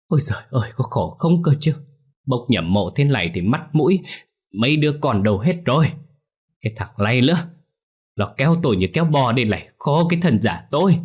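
high, loud whining moan; old master grumbles about being dragged over; grumbling complaint. Acted. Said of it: "ông ta đã kêu ca".

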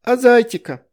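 high, loud dismay; confused little girl. A narrator's reading. Veronika confused about losing the bunny, high. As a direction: ask in childish alarm. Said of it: "растерялась Вероника".

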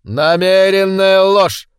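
loud, high, drawn-out accusation; indignant schoolmaster's outburst; stern denunciation. A narrator's reading. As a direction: condemn it slowly and loudly. Teacher denounces the children's lie.

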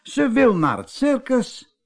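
high, amazed exclamation; astonished cry. A narrator's reading. Wife echoes the mermaid's circus wish, astonished. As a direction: call it out in high-pitched astonishment. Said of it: "riep Ida".

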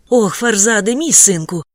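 loud, tearful cry of relief; mother sobbing over her lost son. A narrator's reading. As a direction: sob his name and clutch him. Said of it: "схлипнула вона".

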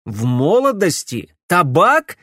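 loud, rising outrage on "молодости" and "Табак"; furious echo. A narrator's reading. Alex throwing Camilla's words back at her, furious. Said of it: "рассвирепел Алекс".

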